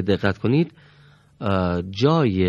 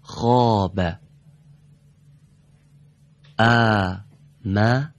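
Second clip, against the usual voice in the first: very slow, each syllable of the Quranic words spaced out; much slower than usual. Shown as a demonstration. Teacher reading Quranic words syllable by syllable. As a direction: break every word into separate syllables. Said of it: "به صورت بخش بخش بخونیم".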